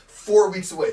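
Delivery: loud hype, held back from full shout; emphatic announcement. Acted. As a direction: announce it firmly and loudly. Hyping the show, first take.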